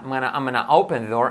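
I'M GONNA squeezed into "amana"; classic gonna. Shown as a demonstration. Teacher showing the classic contraction, slurred "amana". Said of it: "El clásico gana".

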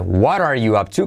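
"What are" linked as "wa-rar"; T as soft R. Shown as a demonstration. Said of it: "con T como resuave". ("What are" con T como R suave)

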